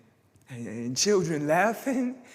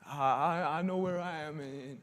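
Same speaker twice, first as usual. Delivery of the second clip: quiet defiance; 2 semitones lower, 10 dB quieter than usual. Acted. Defiant line spoken softly.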